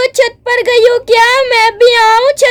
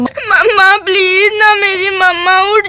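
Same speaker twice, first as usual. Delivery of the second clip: crying plea; 3 semitones lower than usual. Acted. Child crying over fallen mother.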